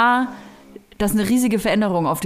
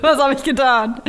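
laughing mock panic; 4 semitones higher, 3 dB louder than usual.

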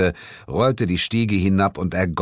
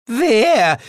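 loud, very high cry; called-out question; 7 dB louder than usual. A narrator's reading. Woman in black calling out to ask who, loud. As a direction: shout the question, pitch shooting up. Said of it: "rief die Frau im schwarzen Kleid".

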